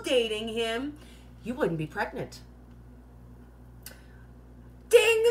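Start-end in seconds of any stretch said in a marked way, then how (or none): 4.9-5.2 high loud bell-like "Ding!"; pleased with her own analogy, a loud high ding; triumphant ding. Acted. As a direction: ring it out like a game-show bell. Announces correct answer.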